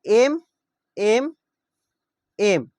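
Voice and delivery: एम called out loud, one at a time; teacher calling out एम for the class; stressing the M sound. Shown as a demonstration. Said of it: "मतलब ये क्या हो गया".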